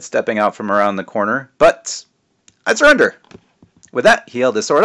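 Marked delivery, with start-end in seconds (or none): 1.6-2.0 dramatic surrender. A narrator's reading. 2.7-3.1 high dramatic surrender. A narrator's reading. First surrender.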